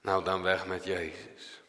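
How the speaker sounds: low, soft, shrugging rejection; dismissive crowd. Acted. Preacher voicing the crowd quietly brushing Jesus aside, dismissive.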